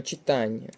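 читання stressed on ТАН; stress on second syllable. Shown as a demonstration. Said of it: "Наголос на другий склад".

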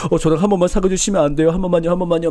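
put-on high, fast pleading boy's voice; begging boyfriend. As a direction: beg her like a lovesick boy. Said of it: "남자가 막 애원한 거야". (높고 빠르게 애원하는 남자 목소리)

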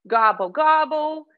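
playful imitation of a turkey; turkey gobble. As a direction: gobble along like a pretend turkey. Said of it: "you would go gobble".

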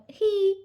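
a short teasing grin noise; cheeky grin. Acted. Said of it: "ഇളിച്ചു കൊടുത്തു". (ഇളിച്ചുകൊണ്ട് ഒരു ശബ്ദം)

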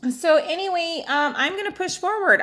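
high pitched, hurried, hiccuping; hiccups. Real, not acted. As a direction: push on through the hiccups. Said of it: "I got the hiccups".

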